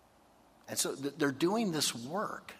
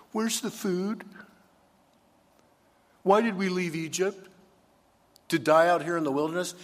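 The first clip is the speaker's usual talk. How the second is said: high, loud complaining whine; whining hungry Israelites; 5 semitones higher, 6 dB louder, faster than usual. Retold or imitated. Preacher voicing the hungry people grumbling about food. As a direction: moan at Moses about the food.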